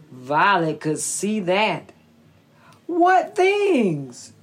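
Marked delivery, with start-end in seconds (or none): 2.9-4.3 little snake voice. Acted. Snake asks fox.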